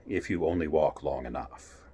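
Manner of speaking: a lazy grinning cat, unhurried; Cheshire Cat. Acted. Cheshire Cat voiced by reader.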